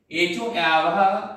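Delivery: एच ओ आवह drawn out, every syllable slow and clear; slow, deliberate teacher's repeat of एच ओ आवह; slow sutra recitation. Shown as a demonstration. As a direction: stretch out एच ओ आवह for the class. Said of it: "सूत्र याद है".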